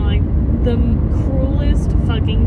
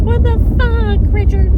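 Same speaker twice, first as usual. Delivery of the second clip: much higher, louder mock yell of disbelief; retold outburst; 12 semitones higher, 7 dB louder than usual. Friend yelling at Richard in shock, high loud mock outburst. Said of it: "he'd be like".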